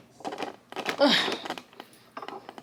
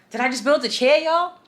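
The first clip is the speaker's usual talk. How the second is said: proud, loud disbelief; excited; 4 semitones higher, 3 dB louder than usual. Real, not acted. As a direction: celebrate the finished chair. Proud after finishing the chair.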